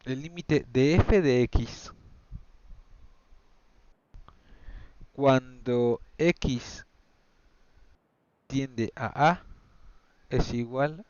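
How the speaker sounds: slow, with long pauses between phrases; slow dictation. Real, not acted. Maths teacher saying the limit notation while writing it, slow dictation. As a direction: spell out the formula piece by piece, slowly.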